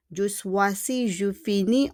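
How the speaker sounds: "Je choisis", "je finis" both ending in a bare ee; silent final S. Shown as a demonstration. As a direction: say "Je choisis", "je finis" without the last S. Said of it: "on prononce pas le S".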